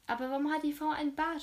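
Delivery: Leonie, hands on hips, snorts at the stranger, indignant. A narrator's reading. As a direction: huff it out like a stubborn kid. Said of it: "schnaubte sie".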